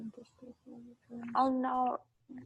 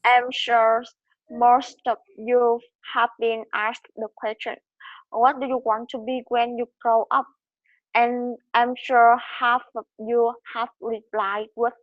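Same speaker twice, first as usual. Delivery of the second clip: too slow; 3 dB louder than usual. Real, not acted. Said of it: "you have to speed up your speed".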